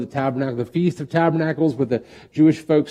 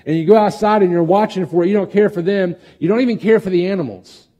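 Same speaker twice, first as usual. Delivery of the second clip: much higher, louder impassioned rebuke; God's appeal; 5 semitones higher, 4 dB louder than usual. Retold or imitated. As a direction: plead with Jonah, pressing hard. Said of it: "he's even appealing, like".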